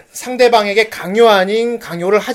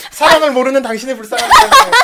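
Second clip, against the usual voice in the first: pitying line demo; 4 semitones higher, 3 dB louder than usual. Shown as a demonstration. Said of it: "라고 해, 빨리".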